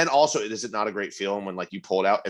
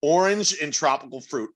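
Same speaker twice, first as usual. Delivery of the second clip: tasting note read; 2 semitones higher than usual. Acted. Reading beer description aloud.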